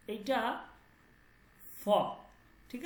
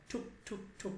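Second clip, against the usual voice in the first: soft knocking sound; 10 dB quieter than usual. Shown as a demonstration. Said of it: "যেমন একটা ঠক ঠক আওয়াজ হয়".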